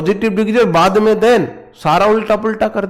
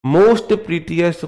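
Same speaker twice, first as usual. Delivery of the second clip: mocking the wrong form; much slower than usual. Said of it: "कुछ तो शर्म कर लो".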